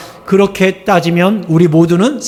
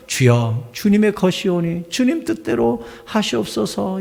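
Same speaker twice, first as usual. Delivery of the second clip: humble prayer; 7 dB quieter than usual. Retold or imitated. Pastor voicing a believer's quiet surrender to God. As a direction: pray it quietly, giving it all up.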